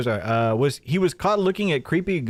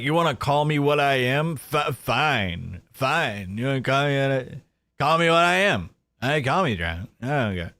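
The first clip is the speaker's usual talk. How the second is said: mock drunk Jeremy. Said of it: "It's like".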